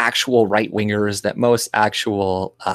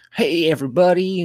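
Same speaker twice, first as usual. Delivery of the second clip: high-pitched parody of her faked Black accent; mock Black American accent; 10 semitones higher than usual. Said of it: "trying to do a black accent".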